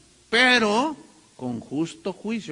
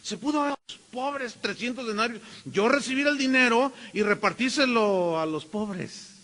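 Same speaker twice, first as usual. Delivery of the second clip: fast, higher, mock pious; pious-sounding Judas; 4 semitones higher than usual. Judas scolding the woman, falsely pious. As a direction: sound holy while scheming. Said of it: "se oía muy piadoso".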